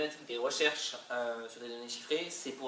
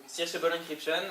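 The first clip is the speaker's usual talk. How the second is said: English said with a heavy French accent; bad English accent; 4 semitones higher, 5 dB louder than usual. Real, not acted. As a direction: read the English term the French way. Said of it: "j'ai un accent anglais qui est épouvantable".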